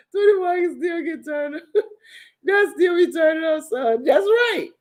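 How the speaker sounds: high, excited singsong shout; hyped up. Real, not acted. Bragging to viewers she still turns up, excited high shout. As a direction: crow it like a party chant.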